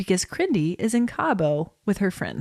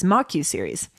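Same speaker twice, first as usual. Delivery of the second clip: whispered aside. Real, not acted.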